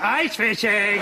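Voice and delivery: lightly voiced robot butler; a hint of a polite robot; Eskimo robot butler. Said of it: "Eskimo robot butler".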